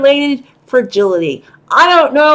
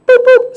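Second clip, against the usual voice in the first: two high-pitched beeps; sudden high double toot; error beep; 11 semitones higher, 4 dB louder than usual. Retold or imitated. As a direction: mimic the wheelchair's error alert. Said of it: "that's the error message".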